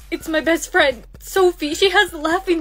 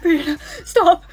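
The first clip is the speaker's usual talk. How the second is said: words through laughing sobs; desperate self-command; 4 dB louder than usual. Acted. Girl ordering herself to stop, laughing desperately. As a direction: fight down the laughter. Fights own laughing fit.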